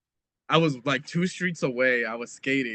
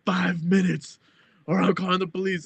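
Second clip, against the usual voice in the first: mock angry dad; 6 semitones higher, 3 dB louder than usual. Retold dad repeats his threat.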